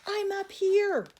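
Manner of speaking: high slow happy call; ringing high reply. Acted. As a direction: shout down from above. Calling down from the sky.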